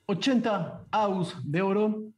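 cantando las pujas como subastador; voz de subastador. Acted. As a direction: subastador animando la puja. Subastador lleva la puja. (voz de subastador subiendo la oferta)

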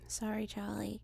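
soft, sincere sorry; sincere apology. Acted. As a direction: apologize from the depth. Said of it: "she did not use the comedy chops".

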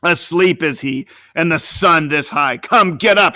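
put-on old master shouting at the sleeping boy; fierce shout. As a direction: wake the lazy boy angrily. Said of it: "he shouted fiercely".

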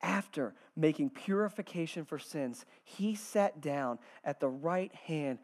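slow, measured reading with long pauses; scripture reading. Acted. Preacher reading Hebrews to the congregation, slow and measured. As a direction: read it out gravely, letting each phrase settle.

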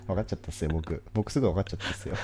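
lightly imitated fighter's casual talk; a hint of a famous fighter's speaking style; 平本蓮. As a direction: softly put on a cocky fighter's way of talking. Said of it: "平本蓮みたいな口調で言うの".

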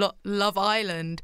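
Love Island slowed, weight on the I; stress on ISLAND. Retold or imitated. Mimicking the presenter's odd emphasis, stressing Island slowly. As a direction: drag out Love Island, leaning on Island. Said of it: "with the emphasis on the I".

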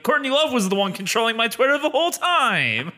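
high, laughing Roseanne imitation. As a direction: blame Courtney with a laugh. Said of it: "Roseanne's gonna be like".

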